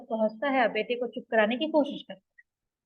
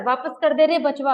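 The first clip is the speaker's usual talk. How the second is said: a loud cry of protest; shouting grandmother; 5 dB louder than usual. Retold or imitated. Grandmother shouting at the collector to take back the cow. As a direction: call out angrily at the officials. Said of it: "दादी चिल्लाकर".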